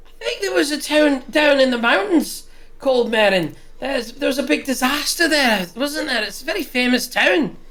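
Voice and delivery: friendly barmaid giving directions. Acted. Barmaid Hilda answers.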